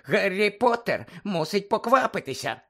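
high, slow squeaky elf voice; Dobby the house-elf squeaking at Harry. Acted. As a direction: squeak it like an anxious little elf. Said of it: "пищав Добі".

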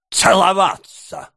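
high cry of disbelief; scandalised exclamation. A narrator's reading. Beadle appalled at the kissing, scandalised exclamation. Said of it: "воскликнул мистер Бамбл, воздев руки".

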